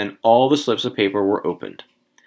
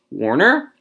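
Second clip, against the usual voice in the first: higher-pitched roll call, rising; 5 semitones higher, 4 dB louder than usual. A narrator's reading. Lottery official calling the next man, calling out. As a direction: call the name out to a crowd. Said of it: "Then he called".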